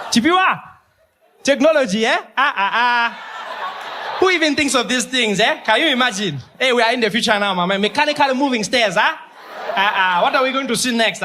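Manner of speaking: high, wide-eyed foreign-sounding voice; a man from the past amazed by moving stairs, in a high marvelling voice; amazed old-timer. Acted. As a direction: marvel at it like it's brand new. Old-fashioned man amazed by escalators.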